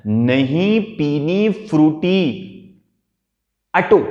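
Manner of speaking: put-on slow, drawn-out sulky whine of a girl; sulky child's refusal. Shown as a demonstration. Teacher acting the sulking girl who refuses her Frooti. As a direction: drag out the refusal like a pouting kid. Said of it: "जो भी उसने word बोले उस word को याद रखना".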